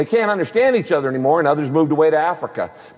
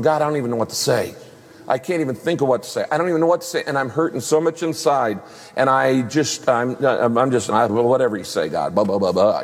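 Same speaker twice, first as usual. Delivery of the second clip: desperate praying; 4 semitones lower than usual. Retold or imitated. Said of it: "when you're just going".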